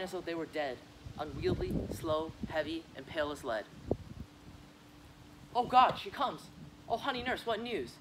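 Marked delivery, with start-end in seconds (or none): 5.5-7.9 excited. Acted. Juliet sees the nurse arrive.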